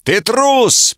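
бешено кричит, гораздо выше и громче; выкрикнуть оскорбление в ярости; бешеный крик. A narrator's reading. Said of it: "прокричал он бешено". (взбешённый рыцарь кричит обвинение в трусости)

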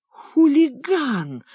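high, slow indignant outburst; indignant exclamation. Acted. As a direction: breathe it out in outrage. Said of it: "выдохнула Липа".

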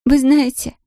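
put-on high, tearful girl with a strong Polish accent; a lost Polish girl in broken Russian, strong Polish accent. A narrator's reading. Tearful Polish girl asks the shopkeeper about buses, strong Polish accent. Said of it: "с сильным польским акцентом".

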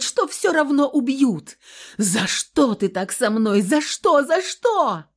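high, loud, desperate accusation; anguished screaming. A narrator's reading. Wife screaming her anguish at her husband. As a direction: scream out the pain and the why. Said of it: "А я всё кричала".

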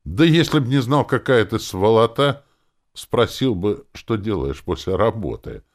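high, loud jeer easing off; mocking. A narrator's reading. Elf needles his friend, mocking. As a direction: tease him with a lifted voice. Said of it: "заявил этот эльф вроде бы насмешливо".

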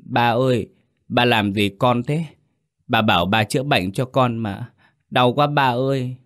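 put-on a child sobbing to his dad in pain; child whimpering. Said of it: "Nó nhìn bố mếu máo".

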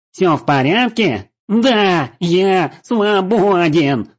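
high, loud, slow ecstatic yell; laughing and shouting. A narrator's reading. Trinik, freed, shouts laughing at his friends. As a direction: bellow it, drawing out the joy. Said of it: "смеясь и крича, заорал Триник".

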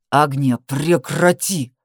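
low, slow growl. Acted. Danil shaking her, growling low and slow. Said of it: "прорычал".

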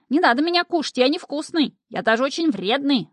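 scared imp wailing for mercy; frightened wailing. A narrator's reading. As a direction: beg not to be eaten, voice climbing in fright. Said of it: "запричитал испугавшийся Шнырь".

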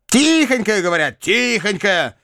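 high mincing mimicry of someone; mocking thin voice. A narrator's reading. Bakhcheev mimicking gossip about the meek woman, mocking thin voice. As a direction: mimic a meek little voice in scorn. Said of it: "прибавил он тоненьким голосом, как будто кого-то передразнивая".

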